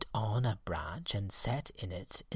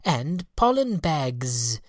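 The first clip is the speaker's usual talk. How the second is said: high, slow little fairy voice; a small sleepy fairy; 4 semitones higher, 5 dB louder, slower than usual. Acted. Fairy speaking to the insects, high and slow.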